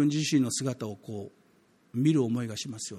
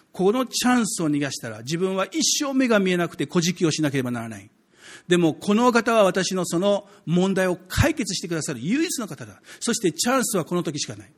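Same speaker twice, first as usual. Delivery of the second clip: raised, pressing voice of a last chance; acted urgency; 3 semitones higher, 3 dB louder than usual. Blind man thinking this is his only chance, acted urgency. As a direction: voice the blind man's urgent inner plea. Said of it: "緊迫感を持ったからです".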